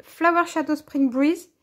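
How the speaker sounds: French-accented English. Real, not acted. Crafter reading out the box name, French-accented English. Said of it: "Super, euh, accent anglais".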